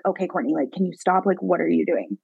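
mother hushing daughter. Retold or imitated. Retelling embarrassed mother hushing her.

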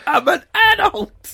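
loud, high drunken mock yell; stretched-out shouted drunk impression. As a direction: protest slowly like an indignant drunk. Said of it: "you're a very drunk adult, Sean".

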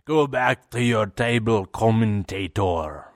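bad imitation accent, condescending, drawn out on the last word; Neville. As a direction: put on a poor mock accent, talking down to someone. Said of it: "really bad, uh, imitation of Neville's accent".

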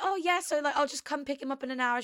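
high, rushed fake cheer; flustered brightness. Telling the vet she'll come, high and rushed. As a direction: hurry through it holding back tears. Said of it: "I was just like".

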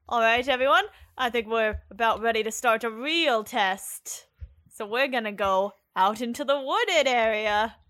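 Scottish watch captain, projecting a little; Scottish accent. Acted. Watch captain rallying recruits for the test, Scottish accent. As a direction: address the men in a Scottish accent. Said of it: "gotta figure out how to do a Scottish accent again".

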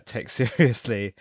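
trying not to laugh; amused, laughing mid-phrase. Real, not acted. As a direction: let a laugh break into the words. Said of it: "sorry, I'm laughing".

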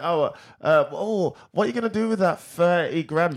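a starstruck fan recognising her; excited fan squeal. Retold or imitated. Co-host mimics a fan who spots her, rising to a squeal. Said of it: "she's like".

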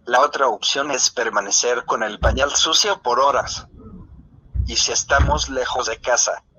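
computer text-to-speech voice. Real, not acted. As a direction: read it like a synthesized voice. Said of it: "esta es mi voz sintetizada". (voz sintetizada de computadora)

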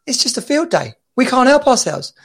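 high-pitched Scottish caller impression; attempted Scottish accent. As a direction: confess it in a put-on Scottish voice. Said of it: "this Scottish guy rang up".

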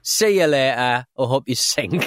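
slow, loud, gloating send-off; hammed-up corporate farewell, slowed and loud; mock departing boss. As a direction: lay it on like a smug exec leaving for good. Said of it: "You do sort of go like".

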